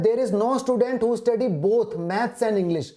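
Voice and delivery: reading each word out very slowly; slow dictation. Shown as a demonstration. Teacher reading the question aloud to students, very slowly. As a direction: spell the question out word by word for the class.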